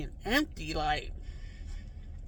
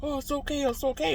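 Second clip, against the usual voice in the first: retold attempt to soothe someone crying; comforting; 7 semitones higher than usual. Stranger trying to calm the crying dreamer, comforting. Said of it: "He's trying to comfort me like".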